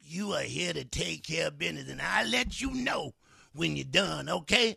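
lightly voiced stern mistress; bossy domineering woman. The woman commanding her crying lover, stern and firm. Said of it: "She talking like the devil".

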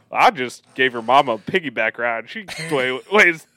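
high, loud comic quote breaking into laughter; playful mock boast, rising in pitch; imitated movie joker. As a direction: deliver the gag in a hammed-up voice, nearly laughing. Retells a funny movie line.

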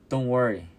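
calls out cheerfully over the storm. A narrator's reading. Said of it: "Peter called out cheerfully".

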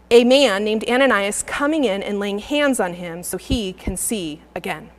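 measured reading of the passage; scripture reading. Acted. Preacher reading scripture to the church, measured. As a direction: read the verses to the congregation.

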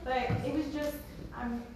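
holding back tears; fighting tears, voice wobbling; shaky sigh. Real, not acted. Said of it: "trying not to cry".

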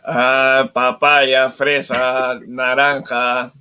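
slow, drawn-out market cries; street vendor call. Acted. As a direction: hawk fruit like a street seller. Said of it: "¿Cómo suena Breña, Pechi?". (vendedor ambulante pregonando)

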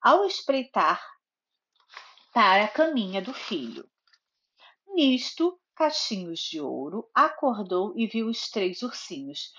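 storybook narration with lively character lines; reading to a child. A narrator's reading. Mother reading Goldilocks to her little daughter, storybook narration. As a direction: read it like a bedtime story for a toddler.

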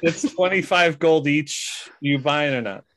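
a hint of a tired shopkeeper; accent dropped. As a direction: brush off the customer wearily. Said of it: "he drops the accent and is like".

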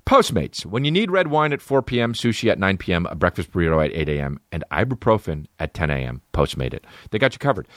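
upbeat ad read for Blue Apron; host-read ad. Acted. Comic reads a sponsor ad for Blue Apron, upbeat. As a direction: sell the meal kit to listeners.

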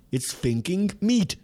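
high, slow disbelief; incredulous alien. Retold or imitated. Alien reporting on Earth's creatures, high and incredulous. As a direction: stretch it out in amazed disbelief.

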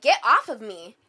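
loud, forceful re-enacted yell; retold scream. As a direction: yell it as in the retelling, short of screaming. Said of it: "I screamed".

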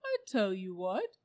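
lifted, loud and eager; bright donkey. A narrator's reading. Donkey offers the animals an idea, brightly. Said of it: "said the donkey brightly".

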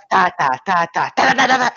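clacking sounds. Shown as a demonstration. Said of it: "Você tinha que fazer mais".

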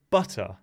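butter with a crisp T and no final R; really British butter. Shown as a demonstration. Contrasting it with an American thing, British butter. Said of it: "the really British way".

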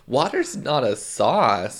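put-on Midwestern drawl; mock Midwestern. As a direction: imitate a Midwesterner, stretching the vowels. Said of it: "making fun of Midwesterners".

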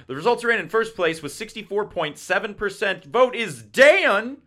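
lively mock results announcement; announcer-style reading. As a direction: present the scores like a contest host. Reads contest results aloud.

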